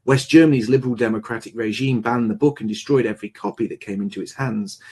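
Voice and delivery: brisk, low read from a book cover; rapid read-aloud of printed text. Acted. Reads from the book's back.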